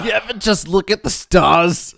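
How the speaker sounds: dreamy Brooklyn stoner drawl. Pretend. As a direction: play a spaced-out stoner. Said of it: "trying to affect, like, a stoner voice".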